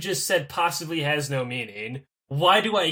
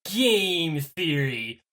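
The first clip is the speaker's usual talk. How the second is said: Matt Pat impression; slower than usual. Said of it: "talked kind of like this".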